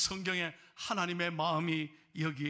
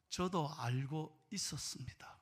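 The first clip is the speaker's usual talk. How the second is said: slow, breathy whisper; whispered confession; 4 semitones lower, 5 dB quieter, slower than usual. Retold or imitated. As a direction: whisper it like a secret. Grandmother quietly revealing she knew.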